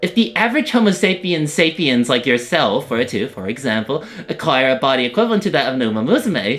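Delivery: lightly voiced lecturing researcher; Rosie voice. Rosie explaining the experiment to the trainer, light character voice. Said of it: "Your Rosie voice is so cute".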